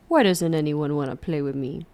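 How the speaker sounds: low imitation of a TV character's plea; imitating the show. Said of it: "In the show, he goes".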